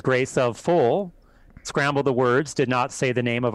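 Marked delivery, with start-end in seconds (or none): 0.0-1.1 mocking demon voice. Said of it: "looked at me and laughed and goes".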